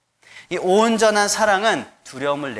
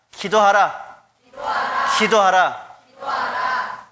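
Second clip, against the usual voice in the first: call and response; 4 semitones higher, slower than usual. Shown as a demonstration. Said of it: "따라해 봅시다".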